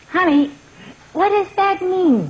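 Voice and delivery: alarmed. Acted. Alarmed mother at son's words.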